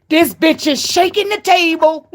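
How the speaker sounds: mock a diva throwing shade; a singer's voice. Quoting a singer's reality show shade, amused and sassy. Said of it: "and she say".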